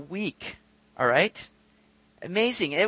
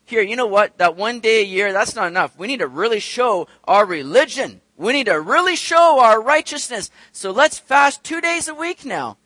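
mock Pharisee proposal; 5 dB louder than usual. Pharisees voiced proposing more fasts.

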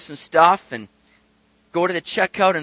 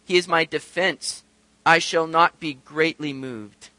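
slow, deliberate reading of a psalm; measured pulpit recitation; scripture reading; slower than usual. A narrator's reading. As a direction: read scripture out firmly with drawn-out words. Reads the psalm aloud to congregation.

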